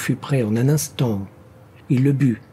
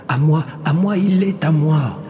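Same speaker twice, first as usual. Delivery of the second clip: higher, insistent claim; possessive voice; 5 semitones higher, 4 dB louder than usual. A narrator's reading. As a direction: fight for him like a greedy spirit. Voices quarrel over the man.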